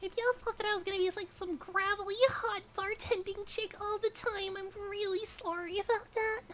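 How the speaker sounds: cute anime streamer. Real, not acted. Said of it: "this is actually just my natural voice".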